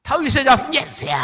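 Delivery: loud, high, strained cry, held just as hard; desperate cry again. Acted. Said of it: "소리를 질렀어요". (군중 너머 예수를 다시 부르는 맹인의 절박한 외침)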